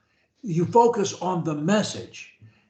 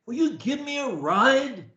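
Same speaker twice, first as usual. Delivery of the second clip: with energy; 5 semitones higher than usual. Shown as a demonstration. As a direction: sell it with energy and conviction. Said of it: "the way I do, with energy".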